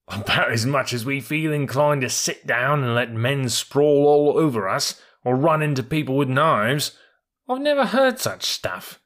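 indignant mule. Acted. Billy answering the troop horse about guns, indignant. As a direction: scoff at the very idea.

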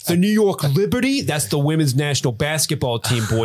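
put-on New York accent. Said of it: "in that New York accent".

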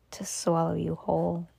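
soft, spooky threat; menacing creature. A narrator's reading. The creature answers the boy, hushed and menacing. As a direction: drop the volume and let it loom.

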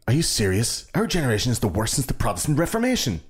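mildly indignant quote, pitch rising; mock disbelief with a touch of anger; incredulous, almost angry. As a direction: imitate someone appalled by his own generation. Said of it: "incredulous and almost angry".

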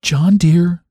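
sweetly gentle, pitched high; high, gentle endearment; gentlest voice. A narrator's reading. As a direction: coax him tenderly in a high voice. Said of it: "said I in the gentlest voice".

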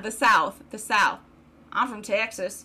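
put-on trying out a Texas accent; Southern accent. Host practicing to find the accent, tentative Texas Southern. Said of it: "Hold on".

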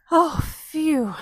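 Phoebe's buzzing sigh of relief; a bright little bee's relief; buzzy bee voice. Acted. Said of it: "buzzed Phoebe".

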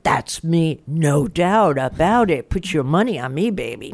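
slow, drawn-out swagger on each phrase; mock cocksure. Founder mimicking someone rock solid about their vision, mock cocksure. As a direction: play at being utterly sure of yourself. Acting out cocksure self-belief.

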